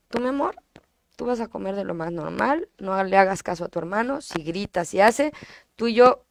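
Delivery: en voz baja, dándole confianza a su hija; tranquilízala bajito, como cómplice; madre tranquilizando. Retold or imitated. (madre tranquilizadora, en voz baja)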